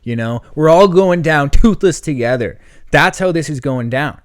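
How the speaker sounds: half-serious rant that swells at the finish; retold swearing threat. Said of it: "I'm, like, swearing at the guy".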